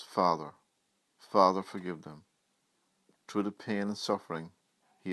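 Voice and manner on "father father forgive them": a loud, pleading call to the Father. Retold or imitated. Jesus on the cross calling to his Father, loud plea. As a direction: cry it out from the cross, raised and pleading. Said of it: "He calls out the words".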